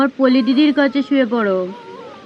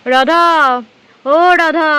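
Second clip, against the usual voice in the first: calling out; 2 semitones higher, 3 dB louder, slower than usual. Acted. Calling out for missing Radha.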